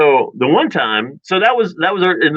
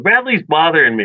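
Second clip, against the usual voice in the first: mock whiny complaint, pitched up; tattling sister; 4 semitones higher than usual. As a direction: imitate a kid telling on a sibling. Voicing tattling sister to mom.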